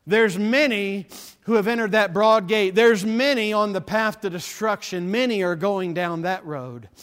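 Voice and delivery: forceful preaching. Real, not acted. Preacher warns of many on the path to destruction, forceful preaching. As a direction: drive each warning home from the pulpit.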